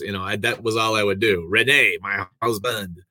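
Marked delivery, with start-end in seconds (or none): 1.5-3.0 bad French Canadian accent. A singer calling for her husband, bad French Canadian accent. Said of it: "just doing a bad French, uh, Canadian accent".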